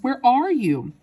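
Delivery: high-pitched searching wail; distraught cry. A narrator's reading. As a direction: call out anxiously for your child. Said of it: "screamed Missus Teavee".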